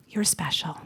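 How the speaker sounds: soft breathy whisper of You're special. Shown as a demonstration. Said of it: "whispered affirmation to audience".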